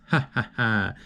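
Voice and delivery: soft, breathy mocking ha ha ha, voice changed; a lightly imitated taunting laugh, quiet; retold laugh. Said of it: "And he laughs".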